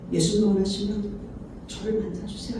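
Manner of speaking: very soft, low, composed request; aloof, dignified. Shown as a demonstration. Proud person asking to meet Jesus, aloof and hushed. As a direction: ask quietly, keeping all your dignity. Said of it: "이렇게 고고하게".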